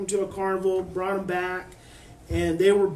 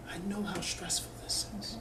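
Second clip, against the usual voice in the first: much softer, hushed and gentle; soft whisper; 10 dB quieter than usual. Shown as a demonstration. Mother soothing a stress-sensitive daughter, whispering softly. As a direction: barely breathe it to her. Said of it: "You may have to whisper".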